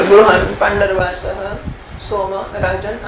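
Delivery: name called out, then trailing; calling out by name. Retold or imitated. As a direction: call the names out as if summoning. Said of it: "આમ બૂમો પાડે".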